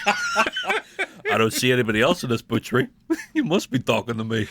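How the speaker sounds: laughing tough-guy voice, lightly done; De Niro impression. Co-host joins the De Niro bit, laughing through it. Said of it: "'Cause you're doing Bobby".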